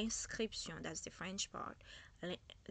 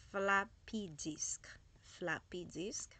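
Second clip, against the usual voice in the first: whisper; 3 dB louder, much slower than usual. Shown as a demonstration. Slow whispered vocabulary demo.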